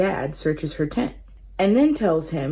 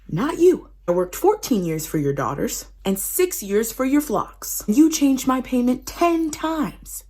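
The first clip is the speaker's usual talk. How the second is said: raised, higher indignant tirade; indignant rant; 4 semitones higher than usual. Retold or imitated. Jacob confronts Laban over his raid, heated and high. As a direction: lay out every grievance, heated.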